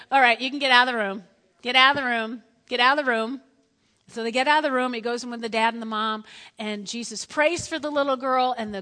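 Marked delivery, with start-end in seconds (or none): 0.1-3.4 loud, firm dismissal; not so nicely. Acted. Jesus clearing mockers from the room, firm and loud. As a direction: order them out, repeating it with force. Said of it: "I don't think so nicely".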